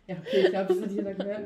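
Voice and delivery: loud, laughing through the words; can't stop giggling; stifled giggles. Real, not acted. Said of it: "lacht auch".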